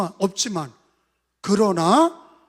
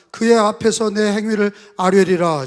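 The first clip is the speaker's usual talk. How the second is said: said out louder on request; louder take; 8 dB louder than usual. Shown as a demonstration. Pastor asks the congregation to say it louder, louder recitation. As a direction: give it more voice for the congregation. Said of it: "야, 좀 크게 해봐".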